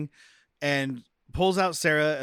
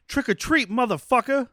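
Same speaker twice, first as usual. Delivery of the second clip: louder, higher mock action-hero line; action one-liner; 9 semitones higher, 4 dB louder than usual. Retelling a rapper busting in, mock action one-liner. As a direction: burst in with a cheesy one-liner.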